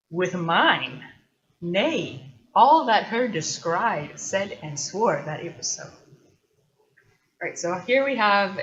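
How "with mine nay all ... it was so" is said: loud, slow declaimed indignation; indignant knight. Acted. Knight answering the doubting poet, indignant. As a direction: read it as an affronted oath, punching the first words. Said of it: "indignant reaction".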